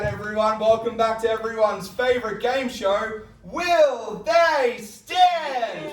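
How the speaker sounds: big announcer voice for the title; game show host. Acted. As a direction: sell the show name like a host.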